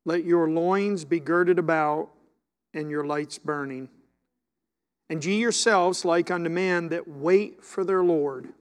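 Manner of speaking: talking around chewing gum. Real, not acted. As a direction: gum in the mouth while reading. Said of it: "I can't do this with gum in my mouth".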